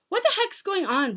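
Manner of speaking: put-on startled, high-pitched child; frightened boy. A narrator's reading. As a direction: blurt it out in alarm. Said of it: "He was frightened".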